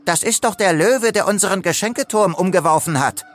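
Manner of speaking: high, accusing rasp, speeding up. A narrator's reading. Crocodile exposes Leo to the crowd, rasping accusation. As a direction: denounce someone in a snarling high voice. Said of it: "sagte eine schnarrende Stimme".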